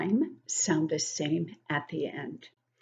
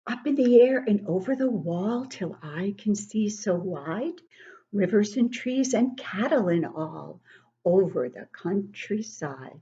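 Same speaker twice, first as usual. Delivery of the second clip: sing-song poem recital, rising and falling; poem reading. Acted. Grandmother reading a poem to children, sing-song. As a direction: read the verses like a swing moving.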